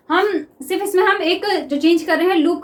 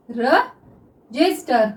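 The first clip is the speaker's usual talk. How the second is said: रजिस्टर drawn out slowly, syllable by syllable; रजिस्टर dictated slowly to students; slow dictation; 4 semitones lower, much slower than usual. Shown as a demonstration. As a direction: stretch रजिस्टर out while writing it. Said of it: "देखिए हम इसको किस तरह से लिखते हैं".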